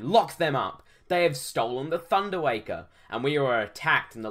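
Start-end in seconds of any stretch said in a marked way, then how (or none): 0.0-2.9 mildly shouted guard's order; scream. Acted. Guard ordering thieves locked up, mildly shouted. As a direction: raise the voice in accusation. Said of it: "screamed a voice from behind".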